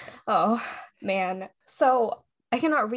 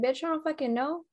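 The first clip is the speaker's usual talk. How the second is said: louder, higher frustrated rant; exasperated outburst; 5 semitones higher, 4 dB louder than usual. Retold or imitated. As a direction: blurt it out in exasperation. Retold outburst at Thai officials.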